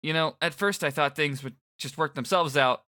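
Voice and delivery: put-on high, lively teen guy; upbeat boy rambling awkwardly; Fret voice.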